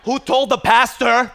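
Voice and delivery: loud, slow, laughing cry; laughing mock outrage. Real, not acted. Preacher joking with the congregation, laughing loudly. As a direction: ham up the outrage through laughter.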